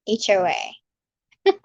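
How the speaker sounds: H O A spelled very slowly, letter by letter. Shown as a demonstration. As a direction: draw out H O A for the viewer, a slow show-off of the accent. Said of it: "I'll randomly throw that in there for you".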